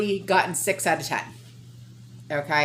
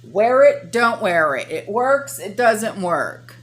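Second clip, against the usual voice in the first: exasperated; 6 dB louder, slower than usual. Real, not acted. Mocking mixed mask advice.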